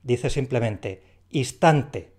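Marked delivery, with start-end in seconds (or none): 1.3-2.1 "instante" slow, with the n left out, "istante"; n dropped. Shown as a demonstration. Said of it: "lo simplifica". ("instante" sin la n, como "istante")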